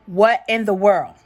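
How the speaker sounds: loud, baffled exclamation; incredulous. Real, not acted. Opening the Pakistan lady story, incredulous.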